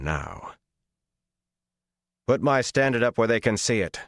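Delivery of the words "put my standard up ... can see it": commanding. A narrator's reading. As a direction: give the command to the camp. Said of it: "Rand commanded".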